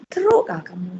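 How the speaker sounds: hushed, voiceless whisper. Shown as a demonstration. Demo phrase whispered.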